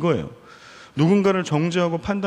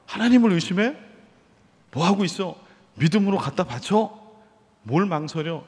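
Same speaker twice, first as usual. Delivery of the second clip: rebuking Abraham; 3 semitones higher than usual. Acted. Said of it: "아브라함을 책망할 거예요".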